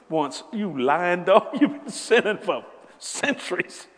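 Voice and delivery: slow, loud, laughing rebuke; laughing mock scolding. Preacher laughing at himself lying in confession, slow and loud. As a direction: scold the liar through laughter.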